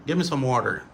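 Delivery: "Give me" said as gimme; casual run-together "Give me"; reduced form. Shown as a demonstration. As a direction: drop the v in "Give me". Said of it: "c'est gimme".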